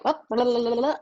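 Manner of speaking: high, loud burst of blah blah; mock impulsive reaction. Someone reacting rashly to an incoming text, loud mock outburst. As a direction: fire off an irritated reaction to a text. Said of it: "you're like".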